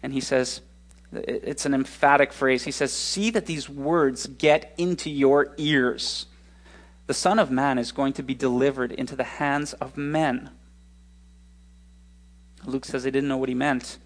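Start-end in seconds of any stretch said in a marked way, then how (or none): 2.9-10.5 edge in his voice. Acted. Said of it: "this edge in his voice".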